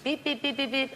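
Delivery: repeated electronic beeps done by mouth; imitated beeping. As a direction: mimic a pager going off. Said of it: "we hear this beep".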